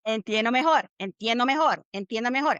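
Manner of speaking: "Entiendo mejor" looped in an identical rhythm; steady drilled repeats of "Entiendo mejor"; broken-record repetition. Shown as a demonstration. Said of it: "it's gonna sound like a broken record".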